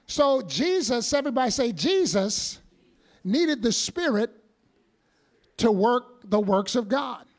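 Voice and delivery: muffled through a mask; speaking behind a face mask. Real, not acted. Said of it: "I'm sorry, it's the mask".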